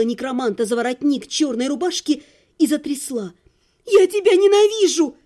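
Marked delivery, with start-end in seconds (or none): 3.9-5.2 shrieking in fury at her ex; wailing yell. A narrator's reading. Heroine yelling at her ex-husband, furious scream. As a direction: scream it out with all her hate. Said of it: "завопила я".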